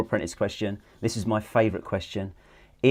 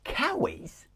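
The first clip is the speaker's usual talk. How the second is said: Cowies? tried back, high and questioning; puzzled repeat; 5 dB quieter than usual. Real, not acted. Host hears the slang word for joggers, puzzled high echo. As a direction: echo the strange word, baffled. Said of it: "As in cow, as in moo?".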